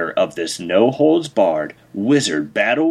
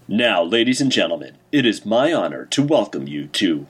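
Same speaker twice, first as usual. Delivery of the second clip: booming announcer. Acted. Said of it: "The announcer spoke again".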